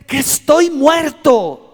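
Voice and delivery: más alto y fuerte, estirado; lamento angustiado. Acted. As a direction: clama perdido. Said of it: "Otra versión dice". (Isaías clama que está muerto)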